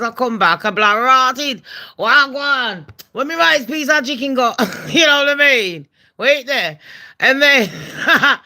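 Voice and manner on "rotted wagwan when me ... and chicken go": lightly put-on Jamaican accent. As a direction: slip into a bit of Jamaican patois. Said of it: "I'll be chatting like the Jamaicans".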